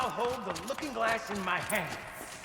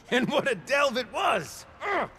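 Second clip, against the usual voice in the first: exuberant; 4 semitones higher than usual. Acted. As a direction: boom it out with pride. Triumphant recollection with shout.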